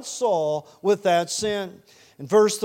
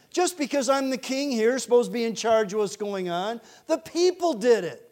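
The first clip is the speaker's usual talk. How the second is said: higher, indignant excuse-making; mock defensive protest; 4 semitones higher than usual. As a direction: push the blame away, pitch jumping up. Saul acted passing the buck.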